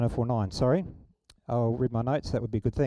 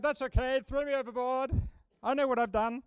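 resigned Jonah; 6 semitones higher, 6 dB quieter than usual. Retold or imitated. Jonah voiced in retold story.

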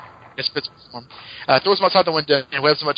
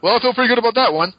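higher, fast, chirpy quip; pleased quip; 8 semitones higher, 3 dB louder, faster than usual. Retold or imitated. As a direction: toss off a satisfied one-liner. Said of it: "Ben says".

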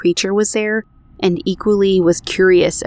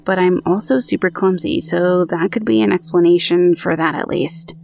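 even, measured podcast read of a true ghost story; narrating an eerie personal account; story narration. A narrator's reading. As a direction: read the listener's account aloud, steady and clear. Reads out listener's story.

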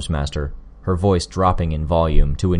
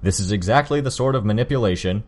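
raised, fast, higher voice; 5 semitones higher, faster than usual. Acted. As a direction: push it up in anger. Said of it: "Armsmaster raised his voice".

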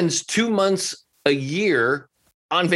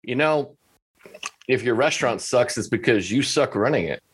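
calm; 3 semitones lower than usual. Retold or imitated. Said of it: "I just calmly said".

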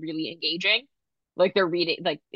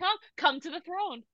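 grand hostess voice; 6 semitones higher than usual. Acted. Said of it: "potty hostess".

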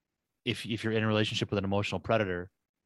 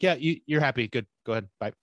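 quick, higher, louder dismissive brush-off; lazy therapist; 3 semitones higher, 4 dB louder, faster than usual. Retold or imitated. Lazy therapist rushing a client out, dismissive and quick. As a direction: hurry the client out the door. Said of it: "They're like".

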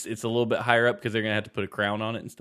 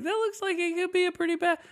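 dentist voice. Retold or imitated. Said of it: "They're like".

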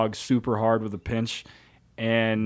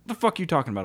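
retold incredulous retort; 6 semitones higher, much faster than usual. Younger self answers his mentor.

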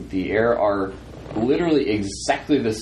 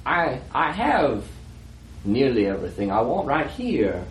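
Delapour. Acted. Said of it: "It's not Delapour's voice anymore".

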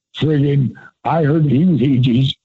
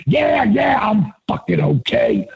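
higher imitated shout of a grumpy man; Michael Hayes shouting; 7 semitones higher than usual. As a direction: snap back higher, imitating him. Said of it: "could do a dead-on Michael Hayes".

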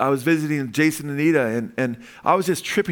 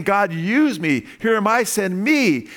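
earnest prayer; 5 semitones higher, 3 dB louder, slower than usual. Acted. Acted prayer to God.

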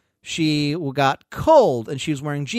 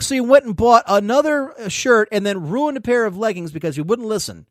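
exasperated scolding; 4 semitones higher than usual. Retold or imitated. Telling her off for ruining leggings, exasperated. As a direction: retell a fed-up telling-off.

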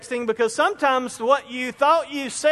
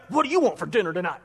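fast, impatient, grudging ask; curt tone; 4 semitones lower, faster than usual. Shown as a demonstration. Husband asking his wife about dinner, curt and impatient. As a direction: snap it out like an annoyance. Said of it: "that's a different tone".

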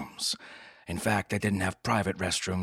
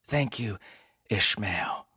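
sultry purr; 3 semitones higher than usual. Acted. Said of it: "Her voice purred".

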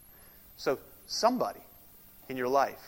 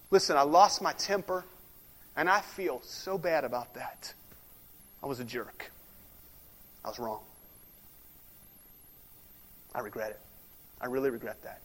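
demo of sorrow; 4 semitones lower than usual. Shown as a demonstration. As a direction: show how to sound truly sorry. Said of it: "I'm expressing sorrow".

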